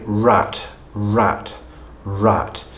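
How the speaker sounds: "rat" slowly, with a smooth English R; careful teacher's "rat", starting on an approximant R; initial English R demo. Shown as a demonstration. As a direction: model "rat" word by word, R untapped. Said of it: "at the beginning of a word".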